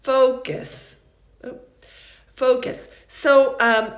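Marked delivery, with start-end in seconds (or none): 0.0-1.0 "Focus" with a loud FO and weak, central second vowel; unstressed second vowel. Shown as a demonstration. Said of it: "just an unstressed mid-central vowel". 2.3-2.9 "focus" with a loud FO and quick weak ending; unstressed second vowel. Shown as a demonstration. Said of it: "just an unstressed mid-central vowel".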